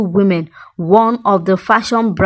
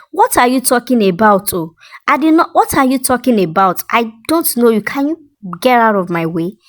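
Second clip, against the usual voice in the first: mild stammer; 2 semitones higher than usual. Acted. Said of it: "she stammered".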